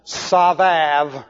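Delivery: savav said slowly as sah-VAHV, with a v sound for each b; Hebrew pronunciation. Shown as a demonstration.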